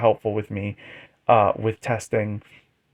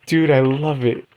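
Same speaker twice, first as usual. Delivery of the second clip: excited; 4 dB louder than usual. Real, not acted. Loving the battle live.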